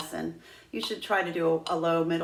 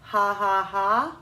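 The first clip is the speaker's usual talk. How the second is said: breathy ha pulses; 3 semitones higher, 5 dB louder, much slower than usual. Shown as a demonstration. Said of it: "We're gonna do".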